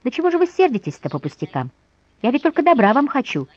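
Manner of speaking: high, whiny, put-upon squeak; a lightly voiced tearful squeak. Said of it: "плаксиво пропищала Фанвизина".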